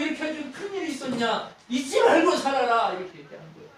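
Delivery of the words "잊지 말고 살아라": high, slow, loud booming command; God's command. Acted. Preacher voicing God, commanding slowly and loudly. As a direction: thunder it down as God to his people.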